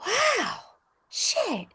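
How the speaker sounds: mock amazed gasp. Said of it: "it's like".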